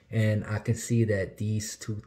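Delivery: speaking while showing teeth; finger in mouth. Real, not acted. Seen 1: finger on lower teeth, lip pulled down while speaking until 2.1.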